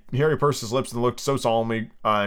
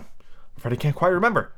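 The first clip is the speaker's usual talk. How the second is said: higher, polite little voice; 6 semitones higher than usual. A narrator's reading. Alice answers Humpty, very politely. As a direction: apologise with careful courtesy. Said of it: "said very politely".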